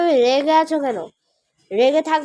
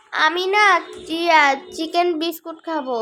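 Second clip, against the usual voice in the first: put-on higher, eager little child voice; a kid asking for his favourite snack; 3 semitones higher than usual. Mother asks child what to eat, eager child voice.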